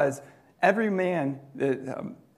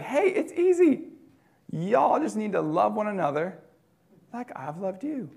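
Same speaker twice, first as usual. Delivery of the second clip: Jesus, easy-going; 5 semitones higher than usual. Retold or imitated. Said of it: "And Jesus is like".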